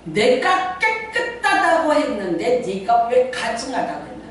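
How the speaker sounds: slow, sing-song voice of God; voicing God. God rebukes Peter, slow sing-song. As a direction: intone it slowly like a chant. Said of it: "하나님 뭐라 그러셔요?".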